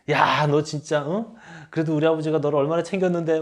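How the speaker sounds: fast, mock-scolding rebuke as the wife; hammed-up wife berating her husband, quick; imitating angry wife. Wife reproaching husband at her father's funeral, mock angry. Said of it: "막 이러면서 막".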